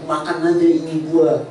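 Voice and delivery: a soft, sly tempter's coax; lightly voiced devil luring Eve; hushed, wheedling serpent offering the fruit; devil tempting Eve. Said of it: "mau dipercepat oleh iblis".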